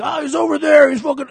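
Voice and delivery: lightly voiced bystander. Imagined bystanders answer.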